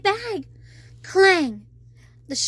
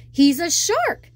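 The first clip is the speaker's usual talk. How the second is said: higher, louder, slow blurt; 3 semitones higher, 5 dB louder, slower than usual. Acted. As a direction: blurt it before you can stop. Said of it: "Flounder blurted out".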